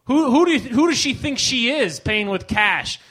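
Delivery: high, loud hammed-up indignation; hammed-up indignant rant; mock outrage. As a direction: huff about her nerve. Mock outrage at mother-in-law.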